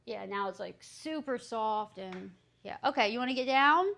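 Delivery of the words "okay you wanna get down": fast, higher, louder talk to a dog; excited question to the dog. Real, not acted. Asking dog, fast high.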